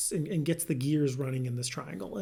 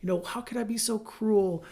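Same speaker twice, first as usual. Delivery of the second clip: mock remorseful wife; 5 semitones higher than usual. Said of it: "They probably switch to".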